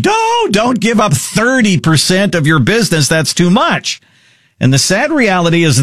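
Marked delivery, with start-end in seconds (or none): 0.0-4.0 higher-pitched mock scream at the TV; mock yelling. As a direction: yell in playful protest, pitch up without real volume. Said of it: "And I scream at the T V".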